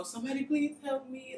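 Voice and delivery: retold scream for help. Jailed in labor, retelling her scream for help. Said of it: "I'm screaming".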